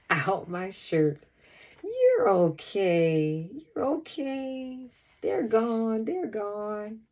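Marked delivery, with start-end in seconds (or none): 1.8-7.0 reassuring. A narrator's reading. Mom reassures the crying child.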